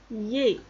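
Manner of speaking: "yé" as one gliding syllable, silent D; prononciation démontrée. Shown as a demonstration. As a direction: model "yé" for the class. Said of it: "ça se prononce". (« yé » articulé, sans le D)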